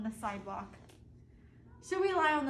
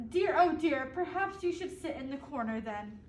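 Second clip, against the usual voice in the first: prim teacher. Acted.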